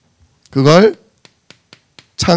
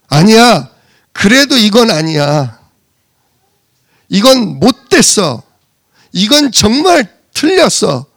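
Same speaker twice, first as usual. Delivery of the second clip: mock indignant protest; 3 semitones higher than usual. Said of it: "라고 누가 주장해요?".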